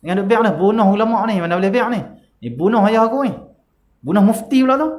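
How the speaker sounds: what we would shout in anger; furious outburst. Retold or imitated. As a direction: whip up revenge like an enraged son. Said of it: "Kalau kita kata apa?".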